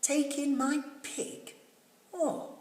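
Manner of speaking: high, incredulous question; old lady can't believe the advice; surprised old lady. A narrator's reading. Old lady to wise man, high and puzzled.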